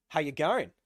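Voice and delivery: brief put-on Australian accent; lightly imitated Australian accent. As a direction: greet them in an Aussie accent. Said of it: "says Igmis with the Australian accent".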